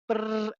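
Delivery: half-managed steady bird trill "brrr"; attempted trill. Shown as a demonstration. Teacher attempts pine warbler trill, half-managed. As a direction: try a steady lip-buzzed trill, not quite managing. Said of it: "I can't even do it".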